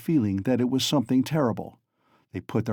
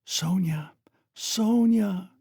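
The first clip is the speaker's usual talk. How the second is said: soft and caressing; 9 semitones higher, much slower than usual. A narrator's reading. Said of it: "softly and caressingly".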